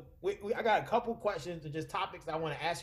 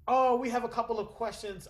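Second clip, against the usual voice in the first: slipping put-on Australian accent; attempted Australian accent; 7 semitones higher than usual. Moderator moving to questions, failing Australian accent. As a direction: barely hold the Australian accent. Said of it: "I can't do the British accent no more".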